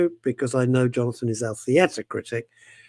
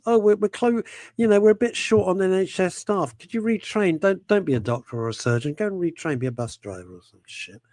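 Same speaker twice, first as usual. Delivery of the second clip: high, sing-song mock of a smug official; scornful impression of a minister, higher; 7 semitones higher than usual. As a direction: parody a breezy bureaucrat, pitched up. Mocking the government's retrain advice.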